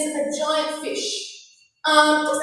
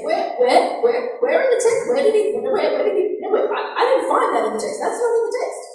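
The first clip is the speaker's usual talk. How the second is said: higher, stammering hunt for the missing words; mock bafflement; 6 semitones higher than usual. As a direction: search in exaggerated confusion, tripping over repeats. Acting a baffled search of text.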